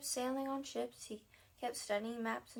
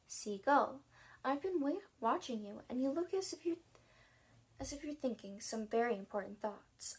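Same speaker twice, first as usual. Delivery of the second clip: put-on light, louder girlish bird voice; girl seagull voice; 3 dB louder than usual. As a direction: play the gull as a chirpy girl. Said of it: "Maybe it should be girl".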